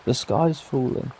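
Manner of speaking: a frightened monkey sure the sky is coming down; panicking. Acted. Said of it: "the monkey starts panicking".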